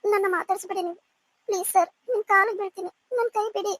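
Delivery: acted, mildly tearful plea; tearful pleading. Frightened woman begs her lover to release her hand, mildly tearful. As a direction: beg to be let go, a touch of tears. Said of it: "please ಅಳ್ಬೇಡವೆ".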